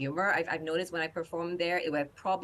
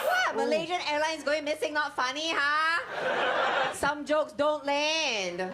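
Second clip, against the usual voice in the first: mock innocent; 11 semitones higher, much slower than usual. Mock innocent stand-up aside.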